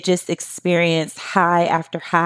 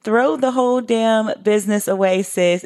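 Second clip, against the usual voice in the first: exasperated outburst; 4 semitones higher than usual. Retold or imitated. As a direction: throw the whole damn business away, fed up. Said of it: "I'd be like".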